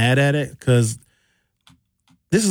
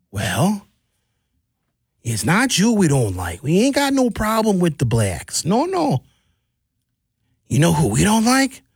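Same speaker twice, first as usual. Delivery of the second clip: put-on Wisconsin accent; 5 semitones higher, slower than usual. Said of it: "He had that heavy Wisconsin accent".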